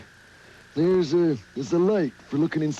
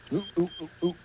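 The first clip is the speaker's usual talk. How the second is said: imitating a beeper; 6 dB quieter, much faster than usual. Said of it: "There goes my beeper".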